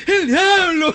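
high, drawn-out comic cry; mock scream. Podcaster imitating a man who saw Satan, mock scream. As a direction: cry out in hammed-up alarm.

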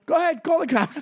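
daring him, half-hammed; retold defiance. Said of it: "I go".

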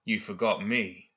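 slow, measured stern correction; understated, deliberate sternness. Acted. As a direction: say it sternly, taking your time. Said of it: "Hoffman said sternly".

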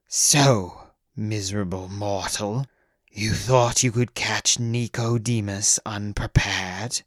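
slow, menacing vampire voice; slow menace from the dark; vampire whisper. A narrator's reading. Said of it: "whispered a voice from the darkness".

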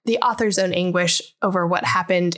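measured book-blurb read-aloud; smooth read-out of a book summary. A narrator's reading. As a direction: read the back-cover summary evenly.

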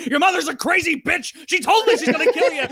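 put-on heated warning to kids.

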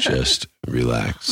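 slow, calming, drawn out; soothing. Real, not acted. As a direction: ease her down slowly. Soothing her before the shock.

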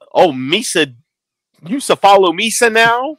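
Jar Jar voice. Retold or imitated. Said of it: "fans that were my age ... going".

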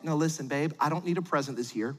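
low-pitched husband voice, slowing at the end; earnest husband. Acted. Husband telling his wife he needs no present, earnest. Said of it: "the husband who told his wife".

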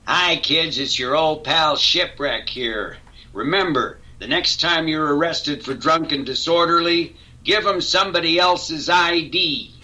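hammed-up PSA announcer, building to a shout; cartoon PSA voice. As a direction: sell it like a cheesy cartoon PSA. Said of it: "do the shipwreck PSA".

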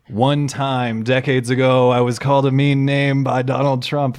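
loud, level, hammed-up confession; mock victim testimony. Host mimics accusers coming forward, mock solemn outrage. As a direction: declare a tiny grievance like a grave ordeal.

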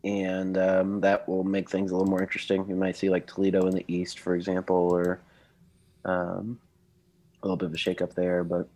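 hoarse, congested sick voice. Real, not acted. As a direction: talk through a cold, voice worn down. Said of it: "forgive me beforehand for having a sick voice".

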